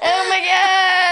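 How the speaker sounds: breathless from a laughing fit; after laughing hard. Real, not acted. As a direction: sore from laughing, still giggling. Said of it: "my stomach hurts from laughing".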